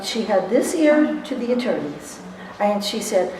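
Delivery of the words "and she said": ordinary talk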